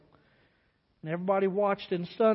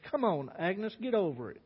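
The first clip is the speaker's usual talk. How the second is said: gentle coaxing; 3 dB quieter than usual. Acted. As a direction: ease her out of her tears. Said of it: "being that kind, gentle man he was".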